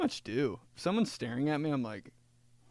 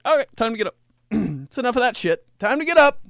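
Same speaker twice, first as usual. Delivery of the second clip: higher, louder mock mom yelling up the stairs; mom's wake-up yell; 10 semitones higher, 11 dB louder, faster than usual. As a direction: bark the family awake like an impatient mom. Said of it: "She'd just be like".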